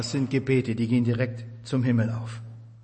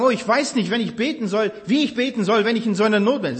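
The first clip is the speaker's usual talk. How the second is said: helpless whining; 6 semitones higher, faster than usual. Retold or imitated. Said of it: "Manche sagen".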